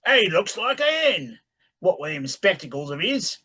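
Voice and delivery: country voice. A narrator's reading. Reads character dialogue.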